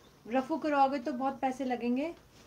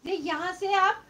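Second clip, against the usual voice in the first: loud, slightly raised voice for the viewers; तेज़ बोलना; 3 semitones higher, 5 dB louder than usual. Real, not acted. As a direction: speak up so the weak connection carries it. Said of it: "मैं तो बहुत तेज बोल रही हूँ".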